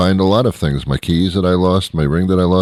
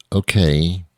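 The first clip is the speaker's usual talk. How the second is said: put-on old lady's okay. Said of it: "she actually says".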